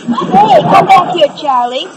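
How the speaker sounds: high call after someone. Real, not acted. Calling after fleeing Charlie.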